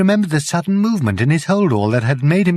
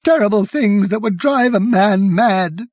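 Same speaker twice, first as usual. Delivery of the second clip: savage; 8 semitones higher, 3 dB louder than usual. Acted. Savage journalist continues.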